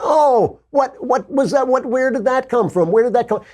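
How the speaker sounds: high, falsetto fake innocence; mock innocent surprise. Host playing the media as innocent, squeaky fake surprise. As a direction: play dumb in a squeaky mock voice. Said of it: "And it's like".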